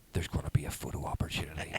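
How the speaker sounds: low, soft conspiratorial aside; confidential. Retold or imitated. Dad tipping off daughter before everyone else, confidential. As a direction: let a child in on a secret plan.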